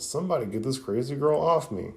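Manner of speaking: acted exasperated cry; retold calling out. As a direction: call out without real volume. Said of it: "He's calling out".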